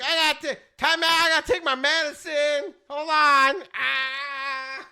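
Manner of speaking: mock old player needing his medicine. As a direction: call time out like a frantic old man. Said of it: "he's like".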